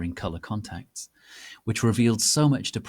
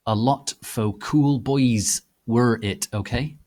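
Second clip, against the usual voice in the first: whiny author voice; 4 dB louder than usual. Acted. Author's note read in character.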